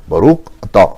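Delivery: Ashkenazi Baruch atá, vowels darkened toward boruch to; swallowed Ashkenazi pronunciation, spoken inward; Ashkenazi accent. Retold or imitated. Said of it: "Los Ashkenazim dicen".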